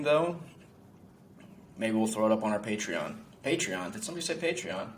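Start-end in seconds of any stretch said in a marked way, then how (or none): 3.4-4.9 higher-pitched playful double take; jokey, put-on surprise, pitched up; mock-surprised plug. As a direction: pretend someone just dropped the magic word.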